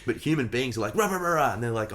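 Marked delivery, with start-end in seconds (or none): 0.9-1.5 imitated barking. Humans barking like the dog.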